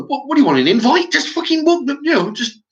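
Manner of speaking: retold snap at shopkeeper. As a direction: sneer at the shopkeeper's fuss. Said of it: "I say to him".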